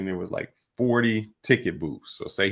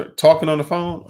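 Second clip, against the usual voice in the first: loud, high burst of exasperation; exasperated outburst; 9 semitones higher, 8 dB louder than usual. Real, not acted. Host venting to cohost about phone calls, loud exasperated burst. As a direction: blurt it out, fed up.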